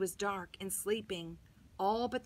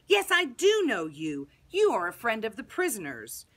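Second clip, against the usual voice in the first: exclaiming; 7 dB louder than usual. Acted. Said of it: "she clapped her hands and exclaimed".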